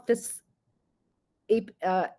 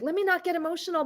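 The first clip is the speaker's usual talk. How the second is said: mock self-talk; 10 semitones higher, faster than usual. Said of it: "I was like".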